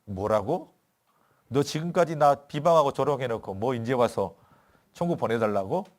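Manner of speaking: mock indignant Jesus. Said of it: "제가 만약 예수님이라면 이랬을 것 같아요".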